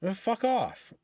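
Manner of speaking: snapping at the neighbor across the street, heated mock rant; retold angry telling-off. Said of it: "I fucking laid into her".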